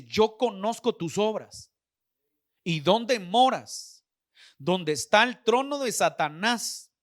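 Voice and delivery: slow, weighty proclamation; solemn scripture reading. Acted. Preacher reading God's words to the church, slow solemn proclamation. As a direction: read it out slowly, leaning on each phrase. Reads scripture aloud to the congregation.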